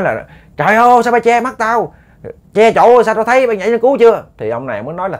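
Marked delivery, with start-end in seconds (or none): 0.6-4.2 high, loud yell of protest; la làng. Retold or imitated. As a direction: shout at the man blocking your view. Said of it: "ổng mới la làng lên". (la làng trách móc, giọng cao)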